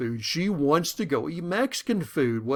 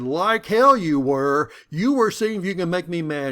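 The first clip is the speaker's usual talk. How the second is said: angry wife; 2 semitones higher, 6 dB louder than usual. Retold or imitated.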